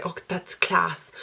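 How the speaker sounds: slow, broad rural Irish accent on "class"; culchie Irish accent. Shown as a demonstration. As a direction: drawl it out in a country Irish accent. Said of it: "a bit of a culty accent sometimes".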